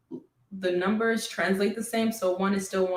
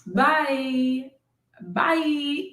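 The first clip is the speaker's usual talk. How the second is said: harsh bye; 5 semitones higher than usual. Shown as a demonstration. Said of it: "Maybe not that harsh".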